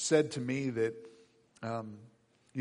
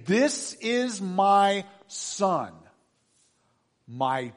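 voice of God; 5 semitones higher, 3 dB louder, much slower than usual. Acted. Voice from the cloud.

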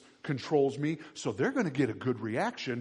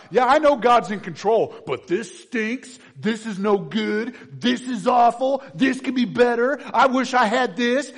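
a hammed-up complainer, louder and higher; mock griping; 9 semitones higher, 11 dB louder than usual. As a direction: whine it like a grumbling believer. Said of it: "all of our gripes are".

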